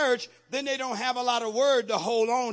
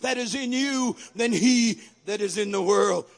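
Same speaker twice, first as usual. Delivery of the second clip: loud, fast, shouted sermon; full-force preaching; 4 semitones higher, 5 dB louder than usual. Acted. Preacher rousing congregation, shouted preaching. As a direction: drive it home to the church.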